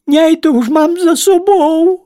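high, thin little-creature voice; squeaky resigned plea. Acted. Ladybird tells the spiders, squeaking, let's get it over with. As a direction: squeak it like a bug giving up.

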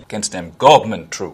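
a hint of West African Creole accent on "government". Shown as a demonstration. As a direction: echo the line in a light Sierra Leone Creole accent. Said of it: "DiCaprio is speaking a West African Creole".

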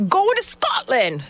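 high, slow mock Scottish accent; a quick badly faked Scottish lilt. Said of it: "Is that a Scottish accent?".

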